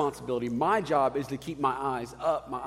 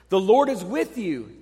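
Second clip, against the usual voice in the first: booming angel greeting, louder; angel's voice; 4 semitones higher, 8 dB louder than usual. Retold or imitated. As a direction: announce it like a mighty angel. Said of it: "he says".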